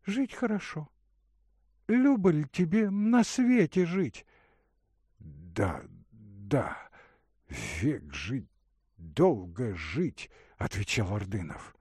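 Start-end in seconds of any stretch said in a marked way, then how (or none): 0.0-4.3 put-on higher, tender young woman's voice; a caring young woman offering water; Katerina's voice. 5.2-10.3 lower, tired man's voice; a sick young man answering weakly; Ordynov's voice. Acted.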